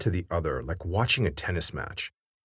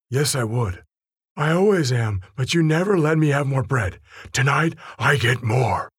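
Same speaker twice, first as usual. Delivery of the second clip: higher and louder, building protest; whiny grown man; 4 semitones higher, 4 dB louder than usual. Acted. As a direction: whine like a spoiled adult. P U argues back, rising.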